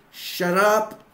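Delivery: sudden high, loud mock shout; acted angry outburst. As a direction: shout them down, half in play. Dan cuts Herbert off.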